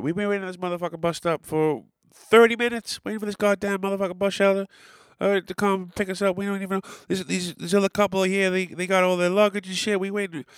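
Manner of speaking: high, fast mock rant of a furious wife; raging wife.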